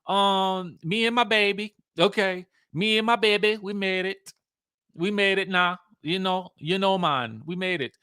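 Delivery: imitating the contestant. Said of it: "it's just giving me".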